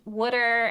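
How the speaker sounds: "would'er" said with an oo vowel; mom's pronunciation. Retold or imitated. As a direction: say "would'er" the way mom says it. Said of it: "my mom says".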